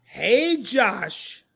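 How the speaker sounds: mild mock of a new subscriber greeting Josh; reading a fan's comment in voice. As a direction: read it like the excited viewer wrote it. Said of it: "I'ma read this like I see it".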